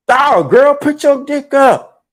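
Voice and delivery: ordinary delivery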